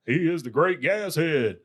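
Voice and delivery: mock-grand sidekick introduction; Joe Jack. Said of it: "Joe Jack".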